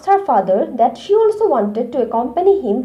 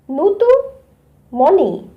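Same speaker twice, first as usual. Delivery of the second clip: mildly raised storybook call; 3 semitones higher than usual. A narrator's reading. Father calling the two aunts at the bus, mildly calling out. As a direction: read it as a light call-out to someone. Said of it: "called out Tinku's father in a loud voice".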